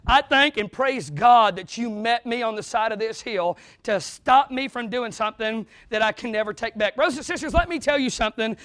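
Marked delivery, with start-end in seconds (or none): 0.0-7.0 a relieved man thanking her; a lightly voiced grateful David. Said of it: "He was saying".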